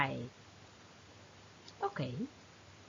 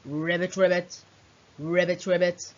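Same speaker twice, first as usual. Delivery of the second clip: frog croak; 4 semitones lower than usual. Shown as a demonstration. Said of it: "has a very familiar sound".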